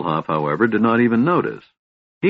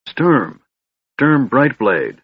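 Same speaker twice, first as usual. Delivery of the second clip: raised, slow call of a name from above; 5 semitones higher, 4 dB louder, much slower than usual. Acted. A hidden friend calls down to Sturm, slow loud call. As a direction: call his name down through the hole.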